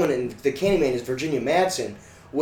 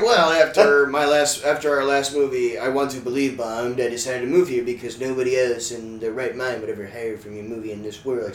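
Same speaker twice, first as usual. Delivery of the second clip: Mulder and Cartman voice; 2 semitones lower than usual. Pretend. Mulder explaining his move to the moon, lightly put-on voice. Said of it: "a mix between Agent Mulder and Cartman".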